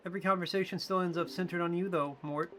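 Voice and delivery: high motherly attendant. Acted. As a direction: pitch way up as a fond caretaker talking to Mort. Voices female character.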